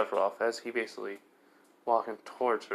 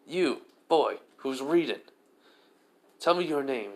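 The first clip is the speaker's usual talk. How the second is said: higher, louder haughty command; arrogant demand; 4 semitones higher, 5 dB louder than usual. Acted. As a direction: bark it down at him like a noble. Arrogant Riser demanding a name.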